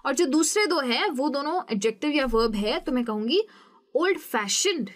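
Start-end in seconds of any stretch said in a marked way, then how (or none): 3.9-4.9 ओल्ड फैशन्ड with the stress on फैशन्ड; stress on second part. Shown as a demonstration. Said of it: "मेरा stress कहाँ जाएगा? लास्ट वाले word पे". (ओल्ड फैशन्ड में फैशन्ड पर ज़ोर)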